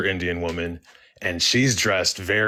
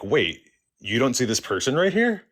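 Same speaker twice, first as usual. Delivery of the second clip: higher-pitched, incredulous question; can't believe they don't see it; retold disbelief; 5 semitones higher than usual. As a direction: act out baffled double-checking. Baffled that clerk can't see woman.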